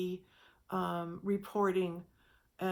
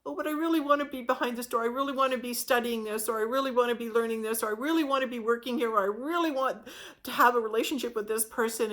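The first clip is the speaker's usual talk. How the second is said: whiny protest; 2 semitones higher, 3 dB louder, faster than usual. Acted. Person protesting the closed door.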